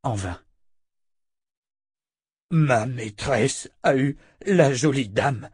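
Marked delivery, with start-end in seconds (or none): 2.5-5.5 lightly voiced creature, slow and halting; monster captive, insistent. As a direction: space out the words like a simple-minded monster. Monster character in narrated story.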